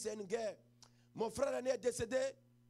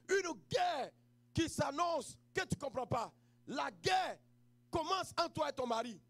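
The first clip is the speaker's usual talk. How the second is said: emphatic preaching; 2 semitones higher than usual. Acted. Sermon builds on marital war.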